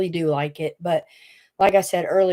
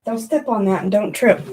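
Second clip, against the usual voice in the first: normal talking voice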